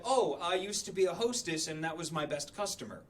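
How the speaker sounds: lightly voiced casual boss; breezy boss. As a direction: toss it off lightly. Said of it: "And she's like".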